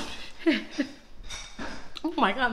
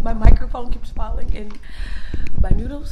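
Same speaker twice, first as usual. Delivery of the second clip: loud exasperation; 11 dB louder than usual. Real, not acted. Chaos while eating hot noodles.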